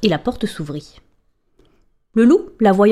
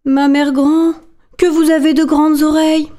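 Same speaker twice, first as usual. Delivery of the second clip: put-on wondering little girl; 7 semitones higher, 4 dB louder than usual. Girl questions the wolf.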